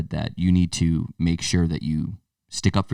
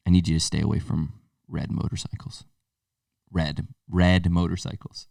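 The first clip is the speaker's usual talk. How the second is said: dead serious; 4 semitones lower than usual. Retold or imitated. Friend's dad passing on a psychic's warning, dead serious. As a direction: warn gravely, with weighty pauses. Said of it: "he was, like, dead serious".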